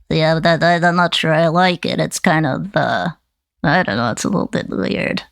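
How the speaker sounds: a hint of gangster puppet; lightly voiced hand puppet. Puppet unsure about the voice Nana gave it, light puppet voice. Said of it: "a gangster and so".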